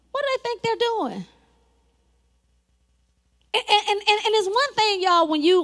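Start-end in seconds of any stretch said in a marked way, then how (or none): 0.1-1.3 higher-pitched mock taunt. Sanballat name-calling the builders, higher mock taunt. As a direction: pitch the question up in mild mockery. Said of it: "they started name calling".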